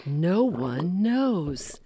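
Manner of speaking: ordinary talk, nothing marked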